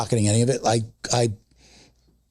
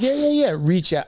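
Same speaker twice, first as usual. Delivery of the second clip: high, quick-fire mock agreement; breezy brush-off; 7 semitones higher than usual. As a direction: wave them off in a high voice. Retells his brush-off to applicants.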